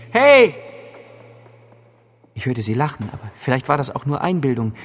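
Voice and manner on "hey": much higher, louder yell; shout. A narrator's reading. Locked-in boy yells as the key turns, panicked shout. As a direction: yell after them in panic. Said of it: "schrie ich".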